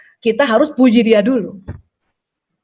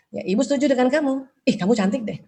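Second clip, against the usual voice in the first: gentle praise; 7 dB quieter than usual. Shown as a demonstration. Mother's supportive words example.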